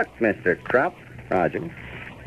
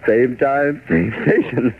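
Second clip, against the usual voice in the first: put-on old radio announcer; 5 semitones lower than usual. Closing announcer credits.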